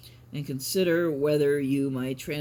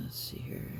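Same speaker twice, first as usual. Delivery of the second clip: whisper; 9 dB quieter than usual. Real, not acted. Muttering to self while reading.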